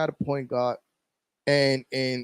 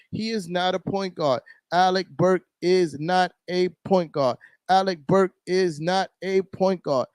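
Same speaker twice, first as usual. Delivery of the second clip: holding back a shout; 4 semitones higher than usual. Real, not acted. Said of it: "I'm trying not to yell because I don't wanna wake up my kid".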